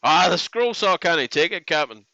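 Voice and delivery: mock Scottish engineer voice; hammed-up Scottish brogue; Scotty impression. A streamer doing a Scottish Scotty to the chat in a mock Scottish accent. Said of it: "You'll wind up sounding like Scotty from Star Trek".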